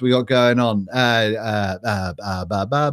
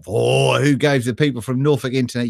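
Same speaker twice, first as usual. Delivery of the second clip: usual speaking voice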